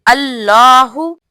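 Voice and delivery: अल्लाहू set apart slowly; separated word. Shown as a demonstration. Teacher splits the takbir word by word. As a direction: say अल्लाहू on its own, clearly. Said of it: "अलग word है".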